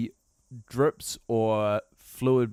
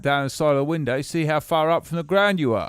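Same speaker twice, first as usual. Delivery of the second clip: put-on English accent; 3 dB louder than usual. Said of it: "talking like this".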